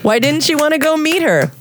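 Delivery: a hint of an eager reporter; interviewer voice. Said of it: "I love your Russian accent".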